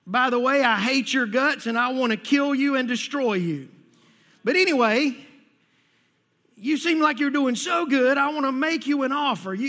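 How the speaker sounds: loud, sly tempter voice; devil voice. Retold or imitated. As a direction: play the devil making an offer. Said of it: "And he says".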